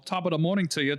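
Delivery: a light stock Irish accent. Shown as a demonstration. Showing friends the failed accent, light Irish accent. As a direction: attempt a touch of Irish. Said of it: "my Irish accent always turns into".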